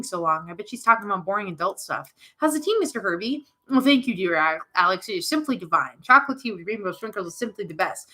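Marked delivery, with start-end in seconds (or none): 3.7-8.1 pompous toy voice. Pretend. Alex voicing the Herbie toy.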